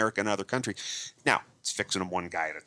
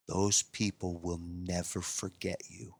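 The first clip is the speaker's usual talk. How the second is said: tearfully moved; 3 semitones lower, 5 dB quieter, slower than usual. Retold or imitated. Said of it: "he's got tears running down his face".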